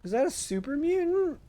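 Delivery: spotting an enemy, alarmed, high and loud; alarmed question. Real, not acted. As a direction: sound rattled by what you see. Spotting a super mutant.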